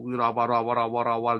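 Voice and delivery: imitated babble on an even pitch; mock speaking in tongues. Preacher showing what the simple woman never did, mock tongues. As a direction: rattle off nonsense syllables, imitating glossolalia. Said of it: "yang pakai bahasa roh".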